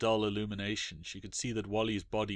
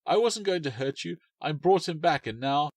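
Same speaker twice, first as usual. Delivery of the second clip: higher, louder pleading shout; 6 semitones higher, 5 dB louder than usual. Acted. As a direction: call out that she meant no harm. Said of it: "she shouted".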